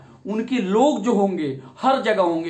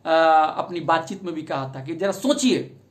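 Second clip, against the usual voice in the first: ordinary delivery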